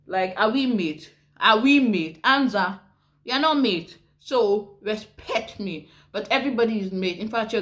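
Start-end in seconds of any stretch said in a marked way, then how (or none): 0.4-5.9 mock-indignant, punched questions; indignant challenge. Speaker rejecting being called mate, mock-indignant challenge. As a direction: demand respect, playfully affronted.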